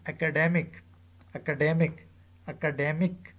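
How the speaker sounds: acaDEmic, with DE stressed before "ic"; stress before suffix. Shown as a demonstration. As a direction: demonstrate "academic" with weight on DEM. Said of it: "stress on the syllable preceding the suffix".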